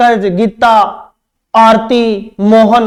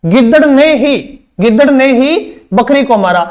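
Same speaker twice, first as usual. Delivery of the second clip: गिद्दड़ ने ही with ही pushed; stress on ने ही. Shown as a demonstration. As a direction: stress the particle ही. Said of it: "निपात हमेशा ही अपने से पहले शब्द पर बल देता है".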